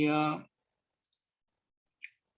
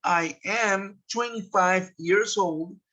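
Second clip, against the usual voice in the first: slow model sentence; slower than usual. Shown as a demonstration. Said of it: "Y cuando yo digo".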